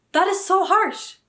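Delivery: high, loud and slow again, landing on harsh; indignant repeat. Real, not acted. Repeating her outrage to viewers, loud and high. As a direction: say it again, still stunned.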